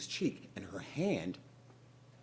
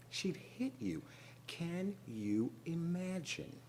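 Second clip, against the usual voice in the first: shocked hush; 8 semitones higher, 7 dB quieter, slower than usual. A narrator's reading. Teller shocked confession, hushed.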